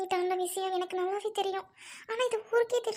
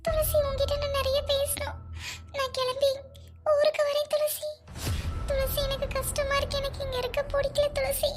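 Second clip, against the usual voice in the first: tearful pleading; 4 semitones higher than usual. Acted. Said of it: "அழாத first".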